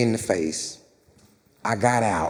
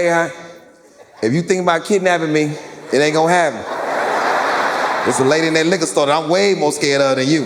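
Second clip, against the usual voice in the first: put-on sassy kid; 4 dB louder, faster than usual. Six-year-old sassing a kidnapper.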